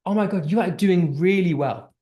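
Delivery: bright, eager praise; enthusiastic praise. Shown as a demonstration. Teacher demoing praise to a student, enthusiastic. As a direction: gush over their work. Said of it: "the tone is very different".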